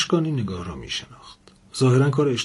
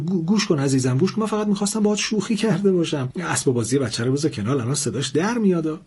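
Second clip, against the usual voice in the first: fast, much higher panicked pleading; flustered pleading; 6 semitones higher, faster than usual. Acted. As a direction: babble it out fast to calm her down. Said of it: "مرد دست باچه گفت".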